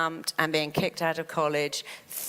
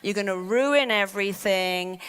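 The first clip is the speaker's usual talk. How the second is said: mock alarmed warning; 2 semitones higher than usual. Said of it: "you can never say".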